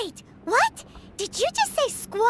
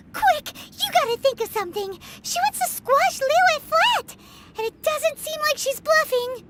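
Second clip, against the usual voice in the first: panicked urging; 3 semitones higher than usual. Acted. Paimon panics, urges traveler.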